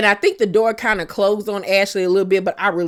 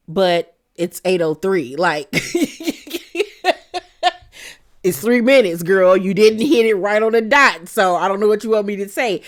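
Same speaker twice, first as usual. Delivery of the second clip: sassy retort. Retold or imitated. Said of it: "And Ashley was like".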